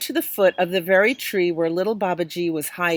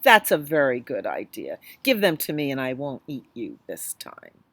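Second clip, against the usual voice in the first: tiger; 5 semitones lower than usual. Acted. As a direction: rumble it out, unimpressed. Tiger accepts the shoes.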